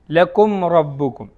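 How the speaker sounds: slow ലക്കും റബ്ബുക്കും with the മ് clearly closed, no nasal hum; recited with izhar. Shown as a demonstration. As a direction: say ലക്കും റബ്ബുക്കും slowly, lips closing cleanly on each മ്. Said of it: "മണിക്കാതെ വ്യക്തമാക്കി ഓതണം".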